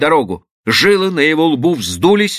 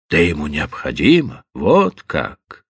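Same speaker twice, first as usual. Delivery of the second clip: dry sarcastic echo of her words; 9 semitones lower than usual. Acted. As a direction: throw her words back with mild scorn. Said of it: "саркастически добавил он".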